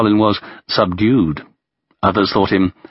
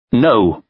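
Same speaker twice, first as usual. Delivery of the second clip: firm, short, louder "No"; emphatic; 3 semitones higher, 3 dB louder than usual. A narrator's reading. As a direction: cut him off with a firm no. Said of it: "replied Molotov emphatically".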